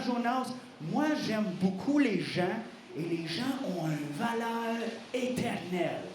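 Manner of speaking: a hint of a calm fatherly God; gentle God. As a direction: reason with him tenderly. God calmly reasons with Jonas.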